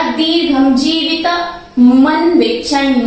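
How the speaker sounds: मन weighted in दीर्घम जीवित मन विच्छन; chanted with weight on मन; stress on म. Shown as a demonstration. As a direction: lean on मन. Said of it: "म पे जोर लगाया मैंने".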